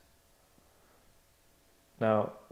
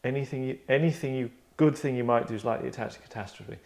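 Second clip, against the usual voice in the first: villain line; 2 semitones higher than usual. Acted. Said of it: "so he's going".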